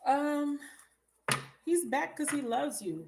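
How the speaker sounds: triumphant, she called it; excited told-you-so. Real, not acted. Vindicated about the returning lover.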